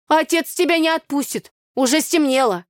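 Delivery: high, loud scolding; brother's warning. Acted. Brother Mitya telling sister she can't go.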